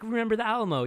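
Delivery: high, loud mock battle cry; Texan battle cry. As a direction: shout it like a proud Texan. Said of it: "Where he's just like".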